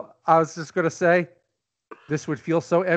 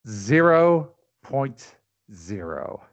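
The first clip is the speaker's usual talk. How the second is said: slow, low deadpan verdict; deadpan dean; 8 semitones lower, much slower than usual. Retold or imitated. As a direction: drag it out flatly. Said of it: "Bluto's grade point average".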